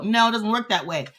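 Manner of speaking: fired up, pressing the point hard; getting carried away by the message; excited. Real, not acted. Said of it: "No, I'm getting excited".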